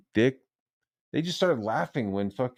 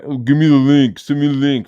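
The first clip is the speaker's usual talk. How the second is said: high, loud mock pleading; mock begging; 5 semitones higher, 9 dB louder than usual. Streamer mimicking people begging to join, mock pleading. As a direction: mimic someone pestering, pitched up and loud. Mocking someone begging for a link.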